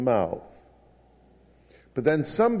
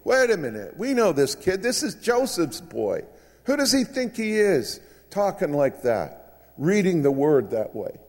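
higher-pitched mock indignation; grumbling disbelief; 4 semitones higher than usual. Townspeople grumble about Joseph's boy, mildly indignant. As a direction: play a doubting crowd murmuring objections. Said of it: "a murmur and a rumble".

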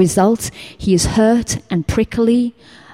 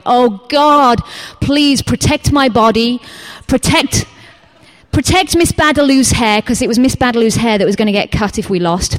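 pleading prayer; 4 semitones higher than usual. Retold or imitated. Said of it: "I went".

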